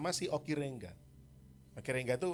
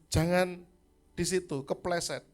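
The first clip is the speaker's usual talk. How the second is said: put-on raised warning to a small child; 4 semitones higher, 5 dB louder than usual. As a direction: call out a firm warning, a bit louder. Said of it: "Niel saya bilang".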